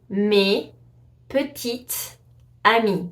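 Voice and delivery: mes petites amies, word by word, S silent; silent final S. Shown as a demonstration. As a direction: spell out the French slowly without any final S. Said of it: "you never pronounce the S".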